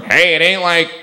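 smug surgeon joking; brain surgeon boasting. Retold or imitated. A brain surgeon comparing his job to dating, smug. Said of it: "What do brain surgeons say".

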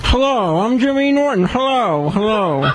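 a small mock Jimmy voice; Jimmy Norton impression. Intern doing staff impressions at the mic, lightly mimicking Jimmy. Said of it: "He did a little voice".

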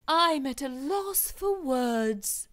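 lightly voiced, drawing it out proudly; proud Wilfred. Wilfred announcing his class choice, slow and proud.

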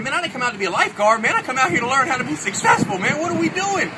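put-on a young guy getting scared in the water; nervous kid. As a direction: voice pitching up in worry. Kid panicking in deep water.

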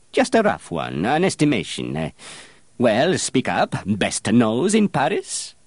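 put-on condescending old perfumer, climbing high and loud toward the end; haughty master perfumer. Master perfumer lecturing apprentice on experience, condescending. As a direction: preach at the boy, rising.

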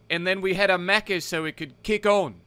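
put-on lightly done Aussie-Kiwi bloke accent; slangy Aussie mate voice, laid-back; Australian-New Zealand accent. Fictional chat with Roy Krishna in a lightly done Aussie-Kiwi accent. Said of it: "doing an Australia-New Zealand accent".

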